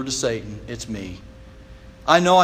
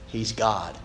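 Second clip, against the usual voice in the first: lower, softer, settled and final; with finality; 7 semitones lower, 7 dB quieter than usual. Retold or imitated. Jewish doctor declaring his conclusion, quiet and final. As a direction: close the matter quietly. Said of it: "he said with finality".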